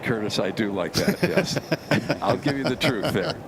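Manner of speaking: amused, grinning admission; smiling voice. Real, not acted. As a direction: let the smile come through. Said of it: "Hear the smile in his voice".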